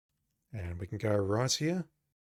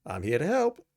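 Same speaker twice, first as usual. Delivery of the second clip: put-on officer voice, pitched up; Ken Mills; 5 semitones higher, 4 dB louder than usual. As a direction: play the weapons officer. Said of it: "not gonna be able to keep these voices up".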